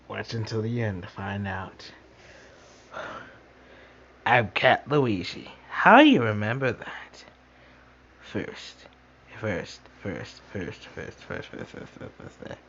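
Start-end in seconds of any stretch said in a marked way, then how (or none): 4.3-7.2 character voice. Pretend. Kid voicing toy character.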